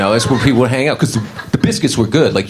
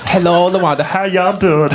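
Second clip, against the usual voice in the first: higher, laughing welcome of a regular; greeting staff voice; 7 semitones higher than usual. Retold or imitated. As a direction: waiter cheerfully greeting LaWanda. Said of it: "the whole staff goes crazy".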